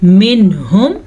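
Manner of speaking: منہم with a short clear n before h; clear n, no ghunnah. Shown as a demonstration. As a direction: say منہم without humming the n. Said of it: "ظاہر کر کے پڑھیں گے اور بغیر غننے کے". (منہم میں نون ظاہر، بغیر غنہ)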